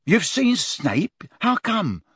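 put-on high, incredulous boy's voice; surprised, mouth busy. Ron quizzes Harry between mouthfuls of gateau, surprised. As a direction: question him with pitch leaping up. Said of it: "between frenzied mouthfuls of gateau".

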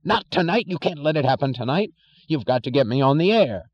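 high desperate scream. Acted. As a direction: scream it in panic. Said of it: "and screamed".

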